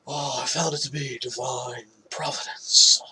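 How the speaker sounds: whispered, breathy mock actor voice with a rising end; horrible Nick Cage impression. Host mocking the actor on the podcast, whispered bad impression. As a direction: hush it into a bad celebrity impression, stretching found. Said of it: "That's a horrible Nick Cage impression".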